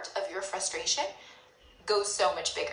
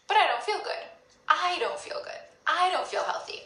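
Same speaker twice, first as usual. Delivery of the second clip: raised, whiny lament; mock deflated complaint; 6 semitones higher than usual. Inner voice admitting it feels bad. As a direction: sigh out that you feel off. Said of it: "you're like".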